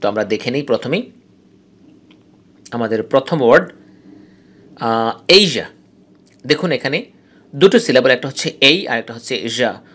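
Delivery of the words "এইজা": এইজা with strong এই and weak জা; stress on first syllable. Shown as a demonstration. Teacher shows the first word, এইজা, stressed on এই. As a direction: press on এই, let জা fall weak in এইজা. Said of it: "এই strong আর জা উইক".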